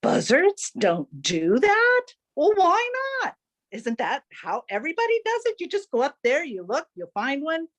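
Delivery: scoff, then show off; chirpy hawk amazed at his friend; incredulous Chicken Hawk. Acted.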